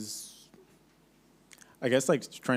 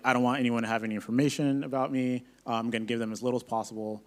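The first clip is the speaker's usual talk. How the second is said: paranoid privacy voice; 5 dB louder, faster than usual. Pretend. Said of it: "we jokingly refer to it as psycho mode".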